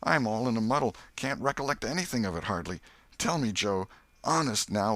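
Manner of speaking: put-on high, quavering plea of a dazed old drunk; a dazed, guilty man begging Joe; frightened drunk pleading. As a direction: beg your friend, muddled and scared. Muff Potter pleading after murder.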